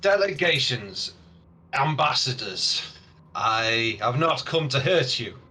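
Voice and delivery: measured address from a hint of an orc; orc leader. Orc hails visiting delegations, lightly voiced, deliberate. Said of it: "an orc that's slightly bigger".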